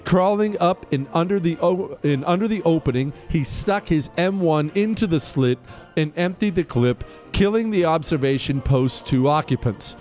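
formal citation read over music; crisp military citation. Acted. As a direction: read it like an official military commendation. Continues reading the citation.

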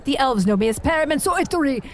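a pompous wizard reciting her titles and epithets; grand wizard proclamation. Acted. Genlevia the wizard introducing herself to the tavern, lofty proclamation. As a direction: declaim your names to the room like a herald.

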